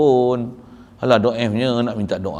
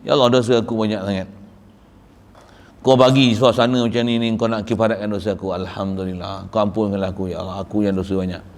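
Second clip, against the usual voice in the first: prayer; 3 semitones lower than usual. Retold or imitated. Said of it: "saya kata gini".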